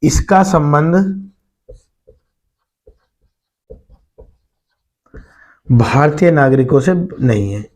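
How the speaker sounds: word by word with long pauses; note-taking dictation. Real, not acted. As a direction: dictate slowly, leaving time to write. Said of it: "note कर लेना आप".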